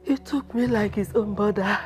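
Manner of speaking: sobbing lament for her husband; wailing widow. Acted. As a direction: cry out his name in grief.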